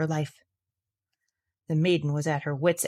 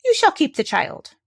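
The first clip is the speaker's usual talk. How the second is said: little man voice; 9 semitones higher, 3 dB louder than usual. Acted. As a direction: dangle the offer slyly. Little man's offer.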